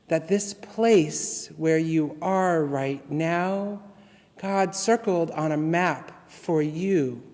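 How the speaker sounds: measured, tender poetry reading; poem reading. Acted.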